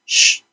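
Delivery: ش as a lone, sustained "shhh"; sound demonstration. Shown as a demonstration. Teacher demonstrating the ش sound on its own, held out. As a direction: hold ش with no vowel. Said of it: "و صدای".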